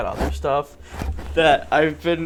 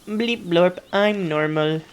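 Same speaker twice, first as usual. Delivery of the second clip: robot voice; 4 semitones higher, slower than usual. Retold or imitated. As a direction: murmur it like a toy robot. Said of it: "robot voice".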